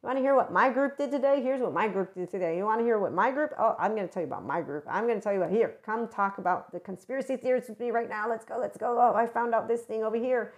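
lightly acted eager gossip; sharing news, can't wait to tell; eager chatter. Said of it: "respectfully chit chat".

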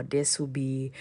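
soft breathy whisper. Real, not acted. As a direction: drop to a whisper. Repeats phrase in a whisper.

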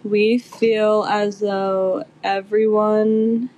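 very slow, creaky vocal fry. Pretend. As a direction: stretch it out in a lazy creak. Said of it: "We're working on our vocal fry".

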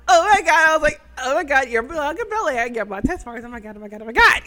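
mildly hammed-up starstruck gushing; fangirling. Fan meets Bianca Belair and Montez, gushing. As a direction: gush in a tumble, acting starstruck. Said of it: "I'm freaking out, fangirling".

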